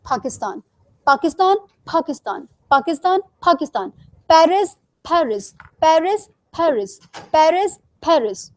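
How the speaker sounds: पाकिस्तान and पेरिस with a puff of air on the P; पाकिस्तान और पेरिस, P में ज़्यादा हवा; aspirated P. Shown as a demonstration. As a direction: alternate plain and airy P on पाकिस्तान and पेरिस. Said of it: "Difference, extra air".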